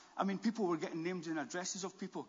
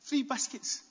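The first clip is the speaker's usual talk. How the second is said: high-pitched disbelief, building to a shout; incredulous exclamation; 9 semitones higher, 10 dB louder, slower than usual. Retold or imitated. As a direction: exclaim it, then much louder the second time. Mock amazement at the tiny offence.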